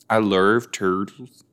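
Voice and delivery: slow, exaggerated try at Australian "love turtles"; attempted Australian accent. Shown as a demonstration. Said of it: "I'm trying to do an Australian".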